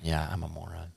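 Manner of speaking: unvoiced, self-mocking whisper. Real, not acted. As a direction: whisper it to yourself.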